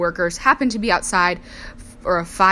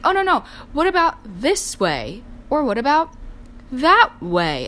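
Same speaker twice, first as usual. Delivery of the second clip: higher, fussing mom imitation; imitating fussy mom; 7 semitones higher than usual. Mom fusses to daughter over flower placement, imitated higher-pitched. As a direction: swoop up as mom weighing options.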